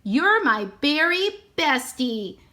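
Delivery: slow, lightly voiced parrot chirp; a hint of a talking parrot. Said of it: "parrots talk".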